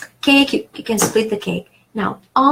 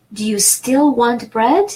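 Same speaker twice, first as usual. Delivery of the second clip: whispered. Shown as a demonstration. Teacher whispering a translation example to the class. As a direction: whisper the whole question. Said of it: "teacher gives alternate translation".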